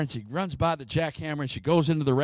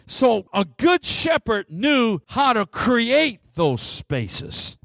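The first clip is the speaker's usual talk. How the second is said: slow, raised pulpit delivery; emphatic preaching; 5 semitones higher, 4 dB louder, slower than usual. Real, not acted. Preacher explaining the shepherd's task to the church, emphatic preaching. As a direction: press each point home, measured and emphatic.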